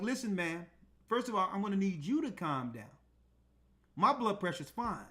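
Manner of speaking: soft, steady, unbothered; calm and firm. Retold or imitated. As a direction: talk her down quietly. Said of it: "And I told her just like that".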